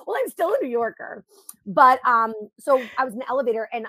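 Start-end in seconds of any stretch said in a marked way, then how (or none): 0.1-1.2 proud New Yorker. Retold or imitated. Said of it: "I'm like".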